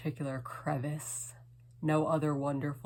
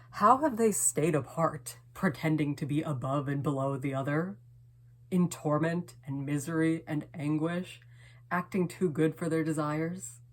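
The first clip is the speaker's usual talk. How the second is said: impassioned climax; 4 dB louder than usual. Acted. Poem builds to anguished climax.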